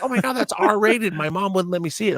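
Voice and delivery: imitating shocked kids.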